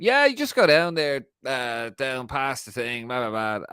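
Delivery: put-on broad Irish accent, starting high then slowing right down; thick Irish accent. Doorman giving Declan Rice directions, thick put-on Irish accent. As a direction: lay the Irish on as thick as it goes. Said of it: "biggest, thickest Irish accent".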